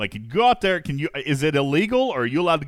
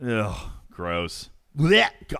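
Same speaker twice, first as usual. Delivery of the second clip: disgusted ugh; 3 semitones lower, much slower than usual. Real, not acted. Host disgusted by land crabs.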